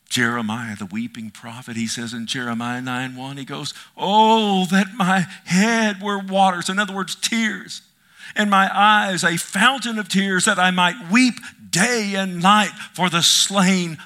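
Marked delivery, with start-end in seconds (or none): 4.0-14.0 impassioned cry. Acted. Preacher cries out a prophet's lament.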